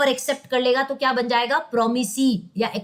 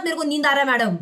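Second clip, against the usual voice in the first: sleepy student; faster than usual. Retold or imitated. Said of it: "अब बोलना मत".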